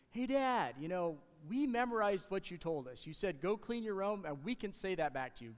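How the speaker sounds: eager sons, only lightly voiced; kids reporting back. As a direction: play the proud kids bragging to dad.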